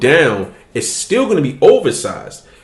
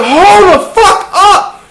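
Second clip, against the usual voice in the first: much higher, slowed, laughing disbelief; stunned disbelief; 6 dB louder, slower than usual. Retold or imitated. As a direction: stretch it out, shocked and half laughing. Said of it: "I'm like".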